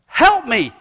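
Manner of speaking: put-on high, loud childlike pleading; little child calling daddy. Little kid calling out to his daddy, high and eager. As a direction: play a small child calling his dad. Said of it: "little child's word of the most intimate endearment".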